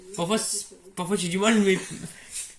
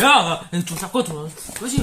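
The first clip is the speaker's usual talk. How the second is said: tic crié; 5 dB louder than usual. Acted. Tic de Tourette joué.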